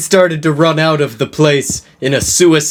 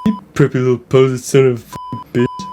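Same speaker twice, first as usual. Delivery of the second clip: disgusted muttering; much faster than usual. Acted. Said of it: "under his breath in a disgusted way".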